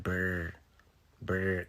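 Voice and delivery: "Brr" with a clumsy attempted trill; failed R roll. Shown as a demonstration. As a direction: try and fail to trill "Brr". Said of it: "'Cause I can't roll my R".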